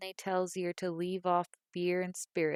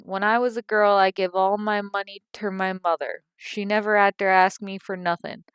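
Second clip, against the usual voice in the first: indignant tirade; 2 semitones higher, 8 dB louder than usual. A narrator's reading. Mother preaching about how a daughter should behave, loud and self-righteous. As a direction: lecture her like a wronged mother.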